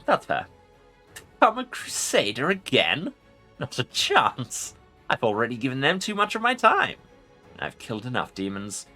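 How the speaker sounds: scornful ancient lich voice; mocking undead king. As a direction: sneer it out as the lich. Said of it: "The Lich responds with mocking laughter".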